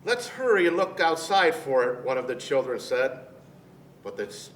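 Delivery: gentle storybook reading voice; reading to children. Acted. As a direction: read it like a bedtime story to kids. Reads picture book to children.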